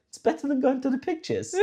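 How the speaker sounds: put-on high, laughing smirk of an amused old man; smirking grandpa. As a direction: tease it through a chuckle. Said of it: "he'd smirk and he'd go".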